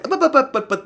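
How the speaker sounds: high, loud rapid buts; excited. Real, not acted. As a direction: burst in with sudden excitement. Sudden excited interruption.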